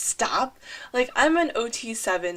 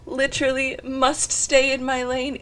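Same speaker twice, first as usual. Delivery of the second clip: mock resolve; 2 semitones higher, 4 dB louder than usual. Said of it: "And I'm like".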